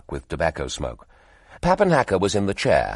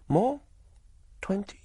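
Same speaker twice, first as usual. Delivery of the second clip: eager bid; 4 dB quieter than usual. Acted. Woman pressing for higher price.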